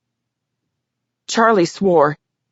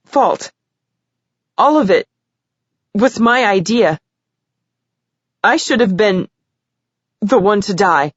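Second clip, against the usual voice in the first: high, upset, near sobbing; tearful confession; 5 semitones higher than usual. A narrator's reading. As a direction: confess through tears.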